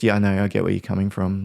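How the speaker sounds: mean it, no edge at all; genuine. Shown as a demonstration. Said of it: "Like, in a genuine way, not condescending".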